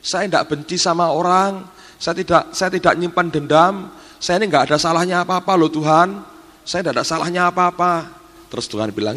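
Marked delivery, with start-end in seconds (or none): 0.0-8.0 higher, anxious pleading of innocence; a retold servant's worried plea, pitched up; pleading maid. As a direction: beg the Lord, insisting she did nothing wrong. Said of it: "Dia ngomong gini".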